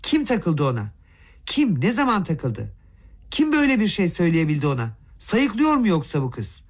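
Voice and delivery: mildly angry, disbelieving questions; understated rage of a flustered mother; a touch of trembling anger. Acted. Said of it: "öfkeden titreyerek ortadan sordu". (anne şaşkın ve hafif öfkeli soruyor)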